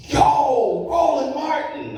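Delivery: loud, high call across a crowd; shouting a name. Retold or imitated. Stranger at the casino shouting Roland's name, loud and high call. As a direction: hail him from a distance, loud and high.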